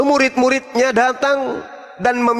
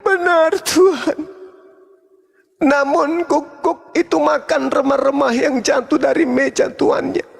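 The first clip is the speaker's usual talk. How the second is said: humble plea; 2 semitones higher than usual. Retold or imitated. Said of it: "Kata perempuan itu kemudian".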